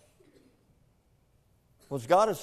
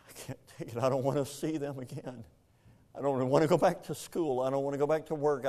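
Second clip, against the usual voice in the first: retold crying daughter. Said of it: "my daughter calls me crying".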